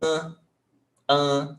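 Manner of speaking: closed, nasal An as in âncora; closed vowel. Shown as a demonstration. Teacher showing the circumflex sound, closed An. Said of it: "It makes a closed vowel sound".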